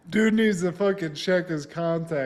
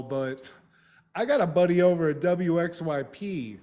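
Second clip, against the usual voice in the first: mock defiant brag, raised at the start; imitating a little attitude; 2 semitones higher than usual. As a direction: act out a cocky kiss-off. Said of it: "he's kinda got a little attitude".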